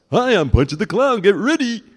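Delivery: high, loud clown announcer voice; Punchy the Clown. Shown as a demonstration. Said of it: "they used two voices for Punchy".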